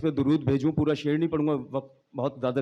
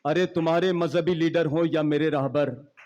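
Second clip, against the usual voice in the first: poetry recitation. Acted. Recites his poem.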